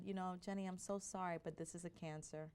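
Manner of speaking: soft, regretful retold delivery; gently breaking news. Doctor telling patient her diagnosis, soft and sorry.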